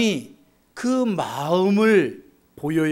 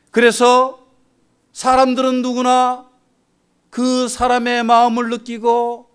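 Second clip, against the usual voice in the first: raised, sustained sermon voice; impassioned preaching; 4 semitones higher, 4 dB louder than usual. Real, not acted. Preacher lamenting unreadable hearts to the congregation, impassioned. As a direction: preach it out with high, held pitch.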